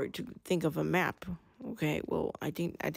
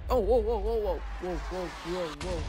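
startled. Real, not acted. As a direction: caught off guard, yelping whoa. Startled in game.

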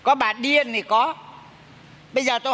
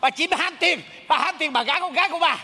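possessed by husband; 3 semitones higher than usual. Pretend. Fake medium accuses the widow, possessed by husband. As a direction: accuse her as the returned husband. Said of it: "Ồ, sao giống chồng tôi vậy?".

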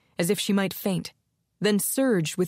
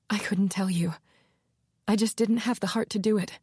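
hushed whisper; 3 semitones higher than usual. Acted. Confessing grim news, gutted.

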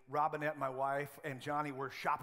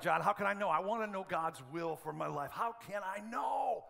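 mock earnest cry of a seeker; pleading listener; 2 semitones higher than usual. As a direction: beg to know God's will. Congregant pleading to pastor.

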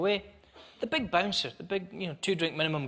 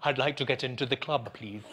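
put-on drunk over-enunciation; 5 semitones lower, 4 dB quieter than usual. Drunk asking to get into the club, over-enunciating. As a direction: play a drunk faking normal speech. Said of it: "I'm talking normally and all that".

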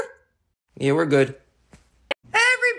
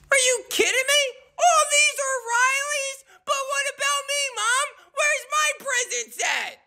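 put-on whiny outraged kid; 3 semitones higher than usual. Billy finds all gifts are Riley's.

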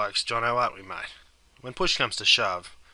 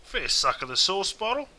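Aussie expression; 6 semitones higher than usual. Shown as a demonstration. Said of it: "We could alternatively say".

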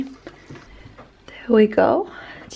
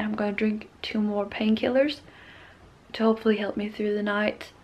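whispering; 6 dB quieter than usual. Real, not acted. Tired, sick, late at night.

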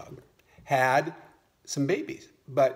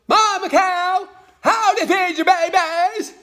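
eager little frog; 9 dB louder than usual. Acted. New frog mother asking mama hen for advice, squeaky high frog voice. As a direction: pipe it up high like a tiny frog. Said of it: "And she goes".

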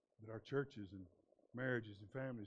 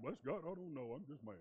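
sulky churchgoer; 3 semitones higher than usual. Retold or imitated. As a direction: play a pouting churchgoer, half-hearted.

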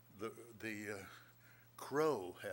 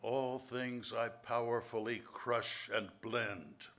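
poem reading. Acted. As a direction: read each line like a riddle to savour. Reads his riddle poem.

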